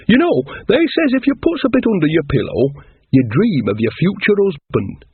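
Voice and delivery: lightly voiced folksy witch; Nanny Ogg voice. A lightly voiced old witch gossiping about brides.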